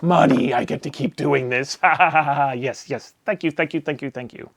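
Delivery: laughing, giddy thanks that fades to a murmur; giddy gratitude. Retold or imitated. Vendor thanks a big-spending customer, giddy then fading. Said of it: "I'm like".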